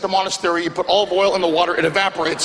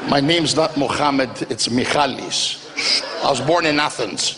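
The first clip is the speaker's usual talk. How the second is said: lower, slow, hushed vendor voice; a hint of a vendor keeping his secret; secretive Greek vendor; 5 semitones lower than usual. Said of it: "They wanna make sure it's a secret".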